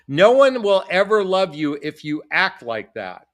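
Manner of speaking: imitating mom. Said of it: "I heard that from my mom".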